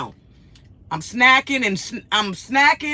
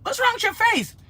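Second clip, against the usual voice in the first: high-pitched swooping troll mimicry; hammed-up mock disbelief; mock disgusted questioning; 14 semitones higher than usual. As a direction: imitate a rude heckler, pitched way up. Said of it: "this other person came on".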